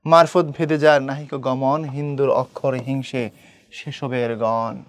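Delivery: slow, measured couplet, sinking toward the end; unhurried poem reading that winds down; verse recitation. Acted. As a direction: recite the poem slowly, drawing out the last words. Teacher recites a quoted couplet.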